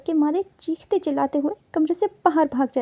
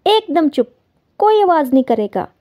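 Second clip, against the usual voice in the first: stern call for silence; 5 dB louder than usual. Acted. Bride silencing the house.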